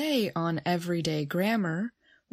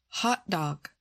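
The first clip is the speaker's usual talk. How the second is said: "Hot dog" with Hot strong, dog weaker; stress on first word; 3 semitones lower than usual. Shown as a demonstration. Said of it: "stress the first word in a compound".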